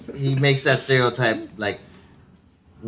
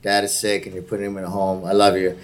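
lower-pitched mock-solemn apology; dropping it down; 4 semitones lower than usual. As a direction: drop into a low, sincere-sounding aside for a sick-dad segue. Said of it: "This is how I drop it down".

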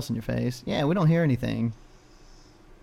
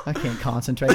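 laughing helplessly; 3 semitones lower than usual. Real, not acted. Cracking up during his news segment.

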